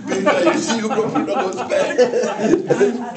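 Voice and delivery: put-on high, loud, slowed, laughing child's wail; laughing mock panic. Little brother scolding Peter about the goat pen, laughing. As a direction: wail it like a panicked kid while cracking up.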